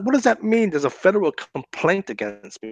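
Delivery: asking what on earth he means, high and confused; retold baffled question. Retelling a question to a prank caller, baffled and high.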